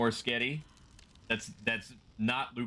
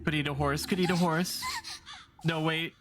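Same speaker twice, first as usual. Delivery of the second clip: crow voice; 7 semitones higher than usual. Acted. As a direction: squawk it like a greedy crow. Voicing hungry crows.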